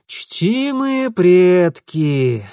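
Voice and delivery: very slow theatrical sigh; mock dismay. Mitya feigning shock at Ingvar. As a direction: clutch the heart mockingly. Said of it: "демонстративно взялся за сердце".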